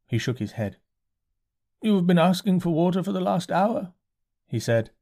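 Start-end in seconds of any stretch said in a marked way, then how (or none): 1.8-3.9 curate. A narrator's reading. Curate voiced by narrator.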